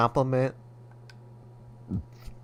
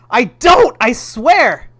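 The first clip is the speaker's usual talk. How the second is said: loud, much higher pleading protest; desperate denial; 10 semitones higher, 11 dB louder, slower than usual. Acted. Son denying to his mother, loud and desperate. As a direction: protest wildly, begging to be believed.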